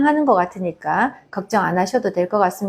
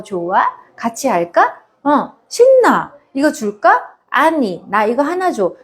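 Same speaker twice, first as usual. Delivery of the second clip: put-on playful child talk; 2 semitones higher than usual. Shown as a demonstration. Toddlers chatting while playing together, playful. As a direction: play it like two little kids sharing toys.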